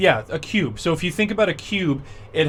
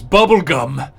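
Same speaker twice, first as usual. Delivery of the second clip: slow, loud order; giant's command; 8 dB louder, slower than usual. Acted. Frost giant ordering Bubblegum into battle, slow and loud. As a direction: bark it slow and heavy as a command. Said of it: "he says".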